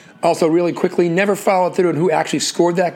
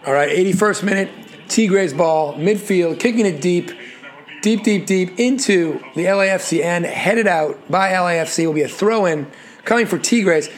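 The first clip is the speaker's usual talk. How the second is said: play-by-play. Acted. Calls the match live.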